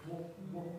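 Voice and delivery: w, w with lips pushed round and forward; exaggerated w sounds. Shown as a demonstration. Teacher demonstrating a w sound, lips exaggerated. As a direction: show the lips rounding on w for the class. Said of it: "getting the visual going on there".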